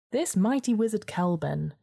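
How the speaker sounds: lightly voiced weasel. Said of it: "continues the weasel".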